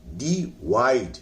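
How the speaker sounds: "डिवाइड" slow, as डी and वाइड; split in two. Shown as a demonstration. Teacher shows two parts in the word, "डिवाइड" split slowly. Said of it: "डी अलग है और वाइड अलग है".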